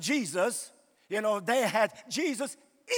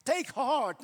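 mock comforting phrase; much slower than usual. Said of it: "we always say".

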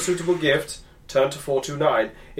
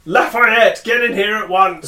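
booming male voice; 3 semitones higher, 4 dB louder than usual. Acted. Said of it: "Jonah White's booming voice summoned you".

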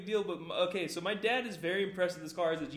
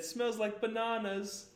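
put-on British accent; 4 semitones higher, 4 dB quieter, much slower than usual. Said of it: "a British kid once said".

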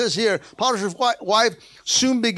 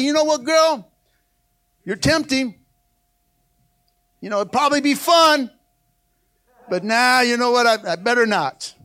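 casual shrug-off. Retold or imitated. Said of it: "he was looking at the temptation like that".

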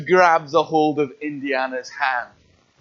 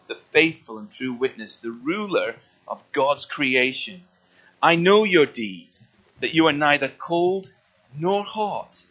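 measured, solemn reading of the passage; scripture reading. Acted. Preacher reading Revelation to the congregation, solemnly. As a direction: read it weighty and steady.

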